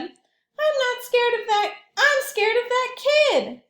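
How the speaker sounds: put-on high, loud, slow kid voice; slow insistent girl. Carrie says it's the kid who scares her, high slow voice. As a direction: point at the scary kid. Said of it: "said Carrie".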